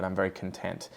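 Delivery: "content" said cun-TENT, as the adjective; stress on second syllable. Shown as a demonstration. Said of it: "adjective saying that you're very happy".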